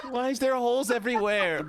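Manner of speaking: laughing high complaint. Real, not acted. Laughing after falling.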